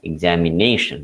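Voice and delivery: examination said whole, with NA stressed; examination, leaning on the second-last syllable NA. Shown as a demonstration. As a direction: put the main beat on NA in examination. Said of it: "So it is pronounced as".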